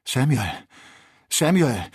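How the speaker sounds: laut und höher, aufgewühlt rufen; bebender Ausruf. A narrator's reading. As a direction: ruf ergriffen nach dem Freund. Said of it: "rief Kennedy mit bebender Stimme". (mit bebender Stimme)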